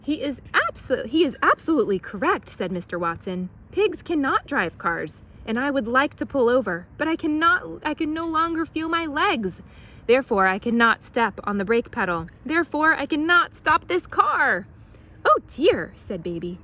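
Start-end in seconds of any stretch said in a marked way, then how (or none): 0.0-14.7 loud, high, strained pleading; strained, panicky. A narrator's reading. Watson pinned under pig. 15.2-15.9 high, loud alarmed gasp; Baby voice. A narrator's reading.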